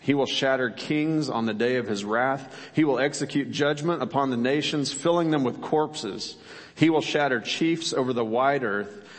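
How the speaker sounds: measured, solemn reading of the psalm; scripture reading. Acted. Pastor reading the psalm to the congregation, solemn and measured. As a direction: read the psalm aloud to the congregation.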